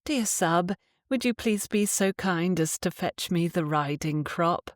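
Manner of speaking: courteous, asking tone; overly polite request. Shown as a demonstration. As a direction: ask nicely, like a favour. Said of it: "You do not say".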